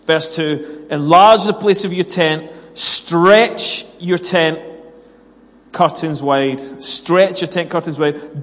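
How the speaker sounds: loud, emphatic Bible reading with measured pauses; declaimed scripture. Acted. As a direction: proclaim the verses, stretching out key words. Reads scripture aloud to congregation.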